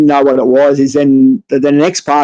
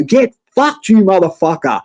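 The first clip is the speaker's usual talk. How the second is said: mock-angry parting insult, pitched up first; retold angry outburst; 3 semitones higher than usual. Patient cursing the doctor in reception, retold high-pitched outburst.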